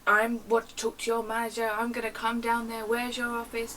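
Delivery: hammed-up irate caller; aggressive caller. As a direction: imitate an irate customer making threats. Aggressive caller demands manager, threatens.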